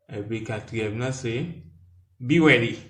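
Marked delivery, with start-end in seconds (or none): 2.2-2.8 be ready said loud and clear, stress on be; model pronunciation. Shown as a demonstration. Teacher modelling be ready to a class. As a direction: call out be ready for the class to copy. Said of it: "Pour mettre au prêt".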